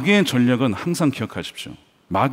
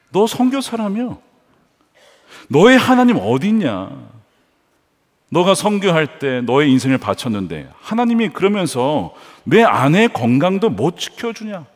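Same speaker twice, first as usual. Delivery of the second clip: mocking taunt. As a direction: challenge them with mild scorn. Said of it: "골리앗이 조롱하는 거죠".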